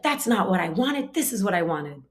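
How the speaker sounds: mock petulant objection; rude tone. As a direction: whine back rudely like a disappointed child. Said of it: "He had a rude tone of voice".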